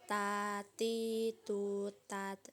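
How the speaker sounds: "Ta, ti, tu, tat" with a little air released on each t; drawn-out "Ta, ti, tu", ending on a released t in "tat"; ta with breath flow. Shown as a demonstration. Teacher shows learners the letter ta, "Ta, ti, tu, tat" drawn out with airflow. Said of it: "dengan mengalirkan sedikit nafas".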